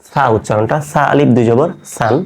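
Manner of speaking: teacher sounds out "সা আলিফ দুই জবর সান" with a clear lisped th; Arabic letter demo. Shown as a demonstration. Teacher shows students the tha sound, careful demo. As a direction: spells out "সা" with the tongue tip on the teeth. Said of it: "তো দেখেন".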